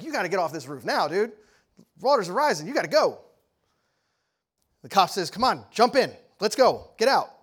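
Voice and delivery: acted urgent rescue command; urgent cop. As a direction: order him off the roof urgently. Cop urging man off roof.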